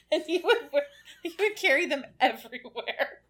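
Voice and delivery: giggly, laughing through the words; fighting back giggles; being tickled. Real, not acted. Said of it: "this is tickling me so much".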